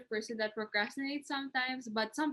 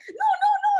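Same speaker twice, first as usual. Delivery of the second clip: laughing protest; 11 dB louder, faster than usual. Retold or imitated. Retold group project fight.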